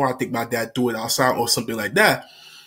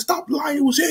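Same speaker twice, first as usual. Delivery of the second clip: high accusing; 12 semitones higher than usual. Retold or imitated. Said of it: "I said".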